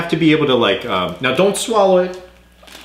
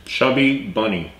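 cheeks stuffed with marshmallows; mushy words round a full mouth; 3 semitones lower, 3 dB quieter than usual. Real, not acted.

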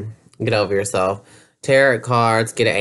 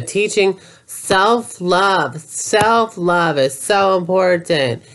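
mocking spiritual believer; 5 semitones higher, slower than usual.

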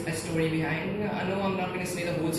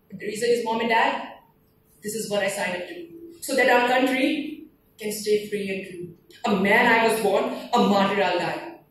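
proud declamation; 2 semitones higher than usual. Acted. Poem's soldier declares duty.

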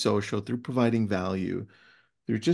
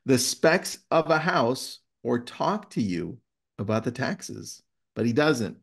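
story read-aloud. Acted. Host reading a favourite book passage to listeners, measured read-aloud. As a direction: read it like a tale worth savouring.

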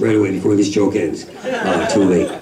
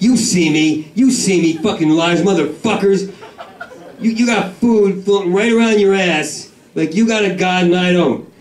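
bratty yelling; 6 semitones higher than usual. Acted. Yelling at ducks as a brat.

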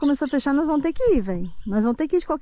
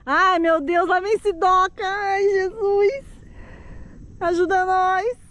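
scared praying; 5 semitones higher than usual. Real, not acted. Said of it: "a tensão que a gente fica".

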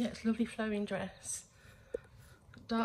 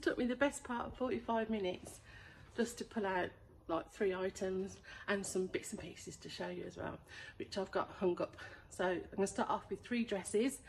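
quiet; 8 dB quieter than usual. Real, not acted. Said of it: "I'm talking quietly because I'm in a storage unit".

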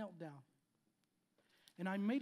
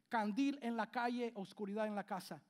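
Spanish saying; 3 dB louder than usual. Shown as a demonstration. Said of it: "The saying is this".

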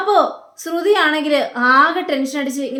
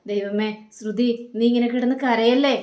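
a hint of a tearful mother soothing; soft pleading. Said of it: "എന്നൊക്കെ ഇങ്ങനെ പറയാം".

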